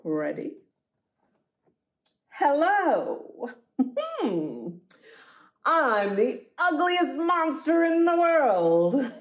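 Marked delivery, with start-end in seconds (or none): 2.4-9.1 lightly voiced silly monster, slow. First monster bragging to the kids. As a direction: ham up a proud little monster.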